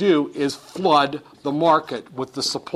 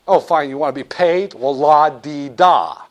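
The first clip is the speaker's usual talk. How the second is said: mock la-di-da. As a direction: sneer at being asked to pay. Banker sarcastically agrees to pay.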